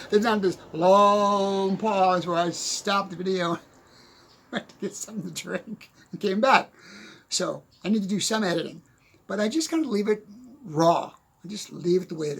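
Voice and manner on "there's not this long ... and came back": words broken up by real laughter; laughing while talking. Real, not acted. Laughing at his own joke.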